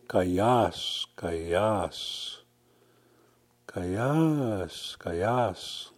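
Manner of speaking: Kayas soft, falling at the end; Cree greeting Kayas. Shown as a demonstration. Teacher models the greeting Kayas, soft and falling. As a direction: say Kayas gently, KAI-as. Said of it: "You could also say".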